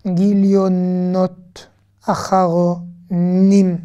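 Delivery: gilionot read out slowly, syllable by syllable; slow reading aloud. Shown as a demonstration. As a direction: Acharonim drawn out slowly, each sound clear. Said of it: "Et puis on a ici".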